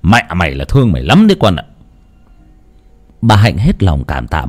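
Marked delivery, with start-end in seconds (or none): 0.0-1.6 a hint of an old man clicking his tongue in praise; lightly voiced old man praising. Old man praising the boy, lightly voiced. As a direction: praise the boy warmly, fatherly. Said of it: "xoa xoa đầu thằng bé mà tấm tắc".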